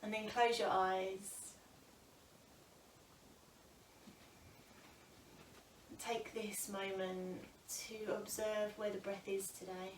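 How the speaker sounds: calm, unhurried yoga teacher with long pauses; guided breath meditation. Acted. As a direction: guide them gently into noticing the breath.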